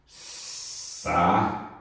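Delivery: Saída pulled apart as sa... í... da; syllable by syllable. Shown as a demonstration. Teacher shows students the tonic I, Saída split into syllables. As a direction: sound out Saída slowly, the í alone. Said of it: "O I está na sílaba tônica sozinho".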